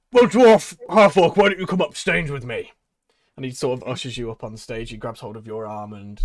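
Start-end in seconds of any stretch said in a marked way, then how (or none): 0.1-2.7 high, loud summons; showman call. Acted. Tabaxi inviting the heroes on stage, loud and high. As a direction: wave them up like a ringmaster.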